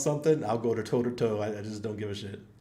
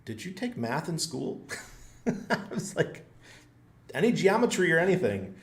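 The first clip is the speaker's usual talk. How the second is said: raised, loud mocking questions at the guard; smart-ass sarcasm; 7 semitones higher, 4 dB louder than usual. Sarcastic driver mocking the guard's math, loud. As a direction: needle the rent-a-cop about his math, loudly. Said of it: "me, I'm a smart ass".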